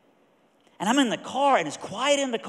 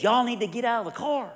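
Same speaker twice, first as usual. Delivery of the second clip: half-held yell in a raised pitch; retold yell; 5 semitones higher than usual. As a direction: imitate a waitress calling into the car. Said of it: "she yells in the car".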